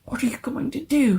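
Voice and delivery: rough, urgent whisper; hoarse whisper. A narrator's reading. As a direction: hiss it hoarsely in fear. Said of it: "he whispered hoarsely".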